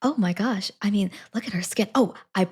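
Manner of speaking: breathy lovestruck whisper, half mocking; mock-swooning whisper; swooning crush. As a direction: gush over her like a smitten girl. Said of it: "she's like".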